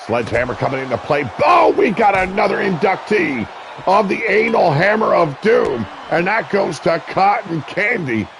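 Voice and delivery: live wrestling play-by-play, rising with the action. Acted. Commentator calling a wrestling match for viewers, play-by-play. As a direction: call the match like a ringside announcer.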